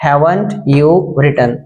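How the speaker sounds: "haven't you written" spoken very slowly, word by word; very slow repeat. Shown as a demonstration. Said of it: "said twice, normal then slow".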